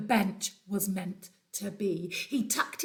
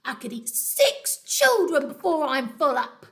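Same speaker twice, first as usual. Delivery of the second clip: louder greedy crocodile boast; 4 semitones higher, 7 dB louder than usual. Acted. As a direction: relish the thought of eating. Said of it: "he said to himself".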